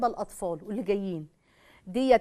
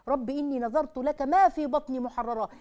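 slow, reverent reading of a verse; slow reverent Quran quote; verse recitation. Shown as a demonstration. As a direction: lay the verse out slowly and devoutly.

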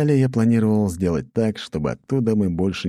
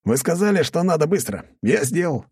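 pleased with himself; 11 semitones higher than usual. A narrator's reading. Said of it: "Довольный собой улыбнулся боец".

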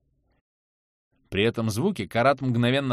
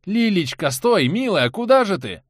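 higher, louder pleading call; desperate calling; 6 semitones higher, 5 dB louder than usual. Acted. Anton calls after the monster Lilya, desperate call. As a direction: call her back tenderly, desperate.

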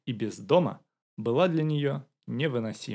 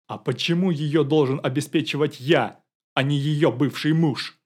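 a touch of anger, louder; angry; 3 semitones higher, 8 dB louder than usual. A narrator's reading. Young man protesting to the detective, mild angry outburst. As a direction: push back, irritated and loud. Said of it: "разозлился Керышев".

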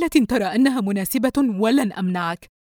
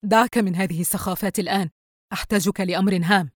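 scowling; 4 dB louder than usual. Acted. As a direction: dismiss him sternly in a lowered voice. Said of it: "الأم بتجهم". (بتجهم)

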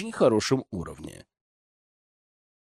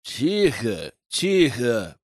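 grumbling; 2 semitones lower, much slower than usual. Acted. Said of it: "пробурчал солдат".

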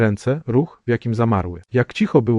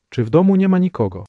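fearful; 7 semitones higher, faster than usual. A narrator's reading. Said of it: "z trwogą w głosie".

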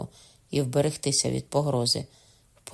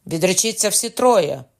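loud, raised order; commanding shout; 5 semitones higher, 7 dB louder than usual. A narrator's reading. Cocona ordering all three to renounce, commanding shout. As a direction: shout it as a demand. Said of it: "крикнув Кокона".

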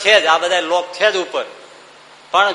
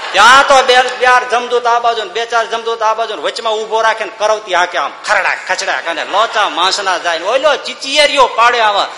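relishing gory description; 3 semitones higher, 4 dB louder than usual. Acted. Gory punishment told with relish.

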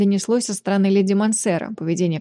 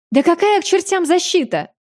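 roaring scorn; 9 semitones higher than usual. A narrator's reading. The stout mother roars at the father's claim, scornful. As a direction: bellow the insult back. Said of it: "взревела дородная мать".

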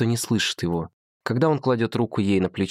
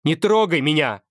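higher, shouted; scream; 7 semitones higher, 4 dB louder than usual. A narrator's reading. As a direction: scream at him to back off. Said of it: "кричит Ева".

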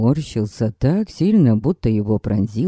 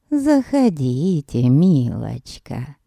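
put-on sweet old lady; 2 semitones lower, slower than usual. Old lady invites her in.

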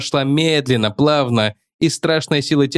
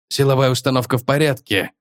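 ordinary delivery, nothing marked

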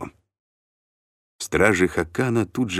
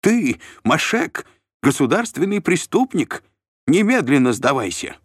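shrill demand; 11 semitones higher, 4 dB louder than usual. A narrator's reading. Shlom denounces Mashek as a criminal, high pompous shout. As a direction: denounce him at the top of your voice.

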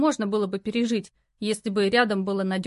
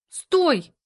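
sharp call, higher and louder; 7 semitones higher, 6 dB louder than usual. A narrator's reading. Lara calling after leaving Valera, loud call. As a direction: stop him before he leaves. Lara calls him back.

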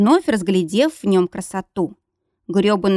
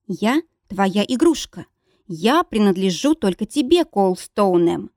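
coughing up water. Acted. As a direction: choke the words out in fury. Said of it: "захлёбываясь, со стервенением произнесла".

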